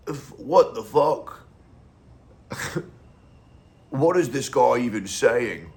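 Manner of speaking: loud, slow, high mock Russian viewer; bad Russian accent. Imitating an ugly reaction viewer in a bad Russian accent. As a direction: ham up a Russian accent, shouting in disbelief. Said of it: "I was trying to do a Russian accent".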